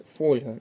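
Фольга stressed on ФОЛЬ; stress on first syllable. Shown as a demonstration. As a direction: hit ФОЛЬ at the start of Фольга. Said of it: "наголос на перший склад".

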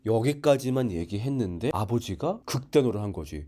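ordinary talk, nothing marked

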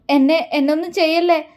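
sobbing plea. Acted. Frightened girl begging him, eyes shut, tearful plea. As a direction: beg him with a catch of tears. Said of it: "തേങ്ങലോട് അവനോട് പറഞ്ഞു".

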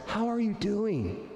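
really wanting to know; a caring check-in with the stress on "you". Shown as a demonstration. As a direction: ask it slowly, lifting the "you". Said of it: "look someone in the eye and say".

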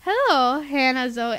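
put-on English accent for a greeting; playful attempt at an English accent. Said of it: "feel free to read in an English accent".

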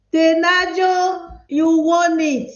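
drawn-out, slow proclamation of the winner; winner announcement. Real, not acted. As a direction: stretch the name out to celebrate. Host announces the quiz winner.

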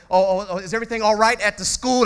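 pry with sugary concern; nosy coworker. Retold or imitated. Preacher mimicking eavesdropping coworker, mock sweet concern.

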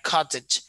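"cottage" with the T sounded; standard pronunciation. Shown as a demonstration. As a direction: standard "cottage", a clear T in the middle. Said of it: "So the standard way is".

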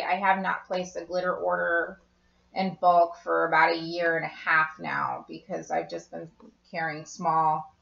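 talking through hiccups; words broken by hiccups. Real, not acted. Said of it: "I have hiccups".

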